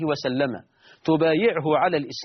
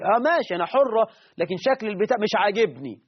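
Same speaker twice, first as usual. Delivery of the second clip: higher-pitched imitation of her retort; mock defiant woman; 4 semitones higher than usual. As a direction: lightly mimic a woman insisting on her opinion. Voices the woman answering back.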